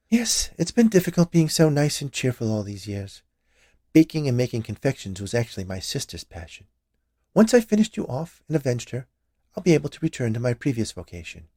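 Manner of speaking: lightly voiced scheming witch; a hint of a sly old witch. Witch character voiced in story.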